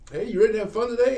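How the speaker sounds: put-on dad trying too hard with a teenager; overly excited. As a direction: overdo the cheery dad bit. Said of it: "and it's your first trip with 'em".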